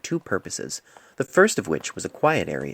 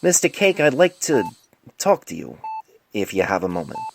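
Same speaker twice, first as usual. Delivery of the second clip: raised voice; 4 dB louder than usual. Acted. Doctor calls louder to patient.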